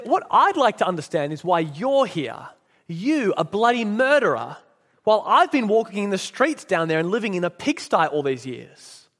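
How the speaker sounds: lightly voiced indignant ghost with stressed pronouns; mildly outraged complainer, leaning on key words. Ghost confronts his former employee in heaven, mildly indignant.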